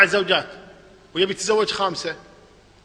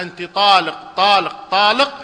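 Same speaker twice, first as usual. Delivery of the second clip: each word louder, rising at the end; emphatic divorce formula; 6 dB louder than usual. Shown as a demonstration. Teacher voicing a husband's triple divorce, loud and firm. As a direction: pronounce the triple divorce firmly, as if it counts three. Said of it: "يعني إذا قال لها".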